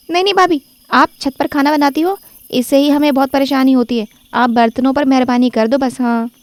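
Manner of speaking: put-on high protesting young woman; objecting sister-in-law. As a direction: push back on her, half pleading and half scolding. (ऊँची आवाज़ में विरोध करती ननद)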